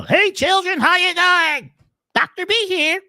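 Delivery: put-on high, sing-song voice for little kids; a doctor greeting kids in a squeaky cartoon voice; funny baby-talk voice. Shown as a demonstration. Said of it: "in these funny little voices".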